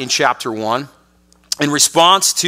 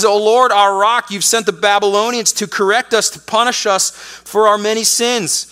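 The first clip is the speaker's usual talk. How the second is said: higher, urgent appeal; pleading prophet; 4 semitones higher than usual. Retold or imitated. Prophet pleading with God, voice raised higher. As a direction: press God with the charge. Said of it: "He says".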